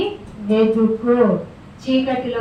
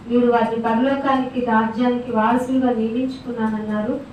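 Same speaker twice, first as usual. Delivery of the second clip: closing prayer. Acted. Closing prayer after the sermon.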